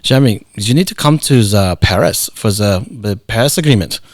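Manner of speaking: lightly imitated thick German accent on the phone. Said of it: "He's a very thick, uh, German accent".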